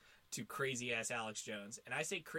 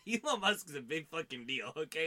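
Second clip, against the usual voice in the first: louder, pressing on each word; emphatic insistence; 4 semitones higher, 8 dB louder than usual. Real, not acted. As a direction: drive the point home hard. Insisting to cohost Elon matters.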